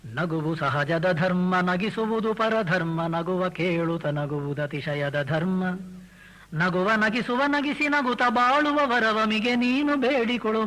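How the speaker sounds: slow, measured verse chant; reciting Mankutimmana Kagga to the audience; poem recitation. Acted.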